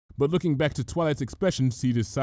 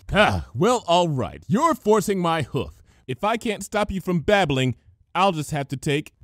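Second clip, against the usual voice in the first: loud, higher, mock villain resolve; said loudly; 7 semitones higher, 4 dB louder than usual. A narrator's reading. Twilight loudly declaring she'll stop the gossip. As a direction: announce it for everyone to hear. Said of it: "said loudly".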